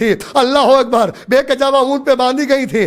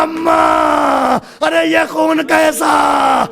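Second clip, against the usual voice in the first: horrified cry; 3 semitones higher, much slower than usual. Acted. Daughter cries out seeing blood.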